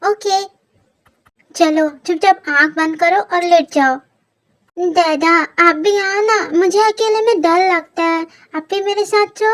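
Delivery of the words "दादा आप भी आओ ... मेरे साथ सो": lightly voiced scared little boy begging; a small kid asking not to be left alone; pleading child. Little Kook begging daddy to sleep beside him, mild scared pleading.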